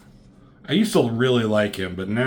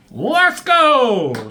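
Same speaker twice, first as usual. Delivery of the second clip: much higher, louder call to move; rallying shout; 13 semitones higher, 7 dB louder than usual. Retold or imitated. Wolverine's pursuer rallying the humans, loud high shout. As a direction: yell it to get everyone moving.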